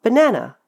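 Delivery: banana with quick mumbled first and third syllables; reduced banana. Shown as a demonstration. Teacher showing the end result, stressed middle of banana. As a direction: say banana with schwas outside, a stressed 'a' as in cat in the middle. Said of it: "The end result is".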